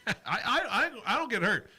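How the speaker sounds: laughing through the words. Real, not acted. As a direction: chuckle while answering. Laughs off a pick against him.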